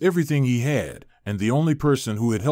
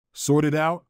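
incredulous rising echo, a bit higher; disbelieving; 4 semitones higher than usual. Acted. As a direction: throw the words back in disbelief. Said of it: "wasn't in the mood for a calm conversation".

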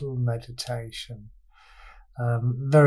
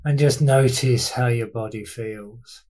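unhurried body-scan guidance with long pauses between instructions; guided meditation. Real, not acted. Teacher leading listeners through a body scan, guided meditation. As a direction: guide listeners through their body, leaving space after each phrase.

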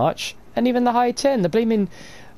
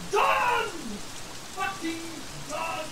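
fading resigned mutter; 9 semitones higher, 13 dB quieter than usual. Real, not acted. Giving up, fading.

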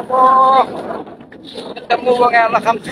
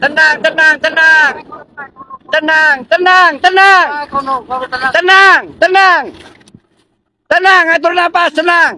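raised calming calls; 4 semitones higher than usual. Real, not acted. Rescuer urging a frightened survivor to breathe, raised voice. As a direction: keep calling to steady them.

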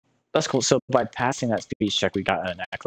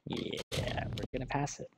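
whispering; 4 semitones higher, 11 dB quieter than usual. Real, not acted. Hushed aside during dialogue.

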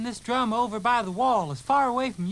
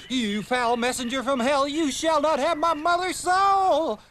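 hammed-up defiance; demon-hunter declamation; 2 semitones higher than usual. Kid confronting a supposed fiend, grand defiance.

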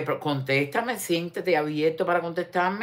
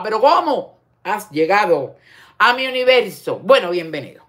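mock amazement; 3 semitones higher, 6 dB louder than usual. Mock welcome to Guena.

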